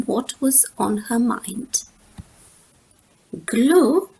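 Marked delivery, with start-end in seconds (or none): 3.5-4.1 puzzled. Acted. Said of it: "said Sister, puzzled".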